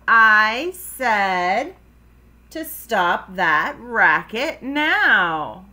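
loud, slow, emphatic order; angry dad. Acted. Dad warns Froggy a second time, angry. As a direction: lay down the law word by word.

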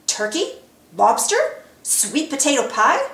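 hopeful hungry guesses, voice lifted; excited guessing. Acted. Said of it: "the two asked excitedly".

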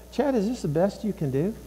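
a hint of quiet motherly reproach; disapproving mom. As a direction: quietly question a child's effort. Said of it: "That would be Mom again".

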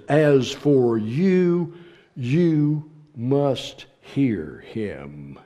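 slow, hushed imperative; whispered command. Shown as a demonstration. Preacher whispering the Father's command to the congregation. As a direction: breathe it as a solemn command. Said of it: "It's an imperative".

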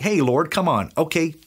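annoyed, fed-up sigh of a complaint; mock exasperation, hey Lord come on; exasperated Simon. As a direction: say it like a weary friend pushed too far. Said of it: "That is not the tone".

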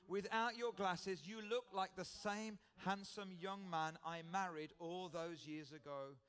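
slow, lightly sweet compliment; sweetly. Retold or imitated. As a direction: linger on it like a fond memory. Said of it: "I said sweetly".

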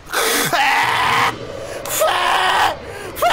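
slow breathy whimpers of dread; real fearful exhale; fearful drawn-out breaths. Real, not acted. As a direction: breathe out in terror, slowly. Turning to face pursuer.

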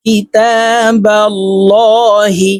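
কিতাবাল্লাহি with a heavy লা, slow and chanted; কিতাবাল্লাহি drawn out, with a thick লা; heavy lam. Shown as a demonstration. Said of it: "তো আমরা এইভাবে পড়ব।".

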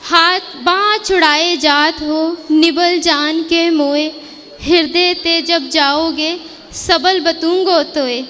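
slow, measured doha recitation; recited couplet. Acted. Narrator quoting Surdas's couplet, slow and devotional. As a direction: lay each line down slowly like verse.

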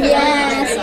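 usual speaking voice

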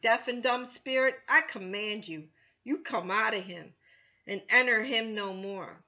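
loud commanding rebuke of a spirit; stern rebuke. Acted. Jesus rebuking the deaf and dumb spirit, loud command. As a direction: cast it out with loud authority. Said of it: "he rebuked the unclean spirit".

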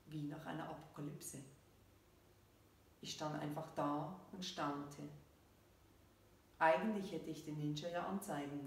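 measured reading with falling sentence ends; story narration. A narrator's reading. Author reads her story to listeners, measured narration. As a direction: read the story out evenly, pausing between phrases.

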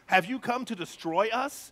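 lightly voiced evil spirit; a hint of creepy demon. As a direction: ask it as a sinister spirit, understated. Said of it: "You just picture this evil voice".

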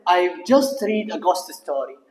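very slow, word by word; slow, careful English sentence; slow model reading. Shown as a demonstration. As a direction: read it slowly for the class. Teacher reads sentence slowly.

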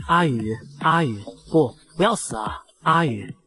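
acted grief, drawn-out calls to a dying friend; tearful pleading. A narrator's reading. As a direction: plead through narrated tears. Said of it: "陆明夜痛哭流泪".

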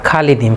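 "খালিদিন" with a thin, open "khaa"; common mispronunciation. Shown as a demonstration. Teacher showing what people say here, mispronounced light khaa in "খালিদিন". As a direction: start "খালিদিন" on a light khaa, not rounded kho. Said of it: "খ জবর খা পড়ে থাকে".

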